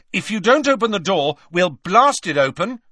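loud, high, forceful warning; shouted threat. A narrator's reading. Harry warning Hagrid he'll blast the door, loud threat. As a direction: threaten them through the door.

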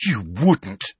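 aghast disbelief; horrified. A narrator's reading. George steps back from Hermione's threat, horrified. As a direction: recoil at the threat.

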